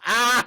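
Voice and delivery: loud mock yelp; imitated cry. Retelling face slammed in dirt, mock cry.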